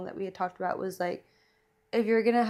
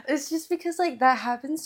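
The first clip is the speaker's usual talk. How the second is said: laughing; 6 semitones higher, 4 dB louder than usual. Real, not acted. Laughing after joke.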